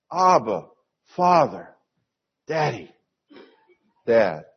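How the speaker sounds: separate, affectionate names, dropping away at the end; intimate family address. Shown as a demonstration. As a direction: say each name gently, like a child to a dad. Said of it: "the most intimate family fashion".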